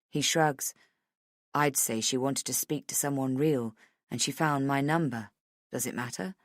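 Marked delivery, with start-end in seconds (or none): 1.5-6.4 lower-pitched, understated man's voice; low-key male producer. Acted. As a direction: answer low and unbothered.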